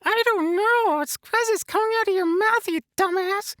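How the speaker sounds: a lightly voiced cheery Elmo puppet; chirpy puppet character talking to the host. Puppet Elmo chatting with the host, lightly voiced.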